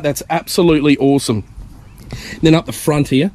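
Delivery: breathless, short of air; running out of air. Real, not acted. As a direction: talk while winded. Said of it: "I'm running out of breath here".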